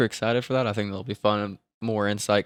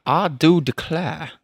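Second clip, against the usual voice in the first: slow, put-on drawl; attempted drawl; 3 semitones higher than usual. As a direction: try the line in a drawl. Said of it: "I don't know where to put my draw".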